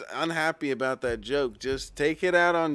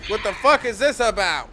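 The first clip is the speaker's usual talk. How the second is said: exasperated; 7 semitones higher, 8 dB louder than usual. Acted. Streamer rants about donation goal.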